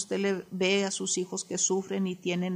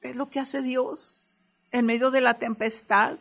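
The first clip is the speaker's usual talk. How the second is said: rising exhortation; 3 semitones higher, 4 dB louder than usual. Real, not acted.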